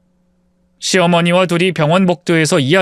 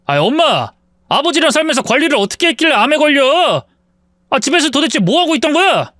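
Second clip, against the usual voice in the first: angry outburst; 5 semitones higher than usual. Acted. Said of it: "화를 세게 내더군요".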